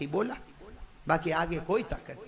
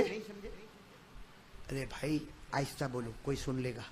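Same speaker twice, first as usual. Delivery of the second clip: whispered mock caution; hammed-up secretive whisper; mock hush; 5 semitones lower, 12 dB quieter, slower than usual. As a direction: pretend to fear being overheard. Mocking the shy, hushed crowd.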